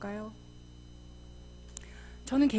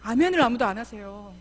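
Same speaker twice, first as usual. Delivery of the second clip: ordinary delivery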